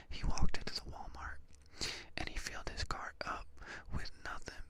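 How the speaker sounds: conspiratorial whisper in the ear; hushed, voiceless mock gossiping. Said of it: "I'm gonna whisper in your ear like I'm gossiping".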